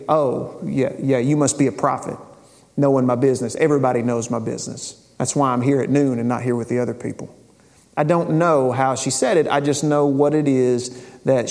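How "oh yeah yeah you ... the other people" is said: quick, dry, mocking agreement; sarcastic. Shown as a demonstration. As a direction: roll your eyes through it, fast. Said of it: "did she say it sarcastically".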